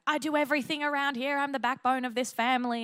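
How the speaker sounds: high-pitched, mock martyred outburst; flipping out. Accommodator suddenly flipping at the family, indignant. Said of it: "they will flip".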